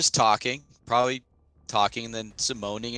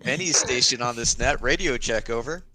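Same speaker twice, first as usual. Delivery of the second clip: radio operator call; like keying a military radio; crackly military radio. Shown as a demonstration. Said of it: "You can push or you can talk".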